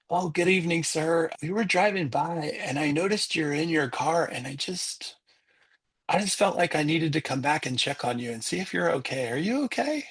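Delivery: lightly voiced polite, concerned girl; dad voicing his daughter. Daughter checking on a stranger in his truck, lightly imitated concern. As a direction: gently check on someone, questioning lift at the end.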